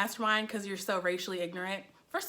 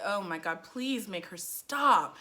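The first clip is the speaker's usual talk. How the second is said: exasperated plea; 4 semitones lower, 4 dB quieter, slower than usual. Retold or imitated. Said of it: "I'm like".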